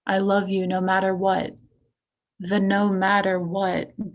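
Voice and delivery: intense, deliberate poem recital; poetry reading. Acted. Poet reading The Sacrifice to an audience, poetry reading. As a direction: push the openings, then settle into measured phrases. Reads own poem aloud.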